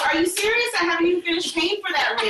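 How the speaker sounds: high-pitched mock outrage; husband losing it. Husband hearing the ring is lost, mock-incredulous outburst. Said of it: "And he lost it".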